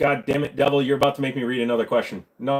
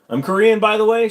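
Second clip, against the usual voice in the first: high, loud mock Asian accent; 9 semitones higher, 7 dB louder than usual. Shown as a demonstration. Joker claiming own people, in mock Asian accent. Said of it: "do an Asian accent".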